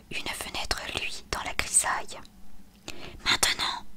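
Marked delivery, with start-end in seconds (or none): 3.2-3.9 forceful stage whisper; mild whispered command; whispered yell. A narrator's reading. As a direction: shout the word without voice. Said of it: "hurla Agatha".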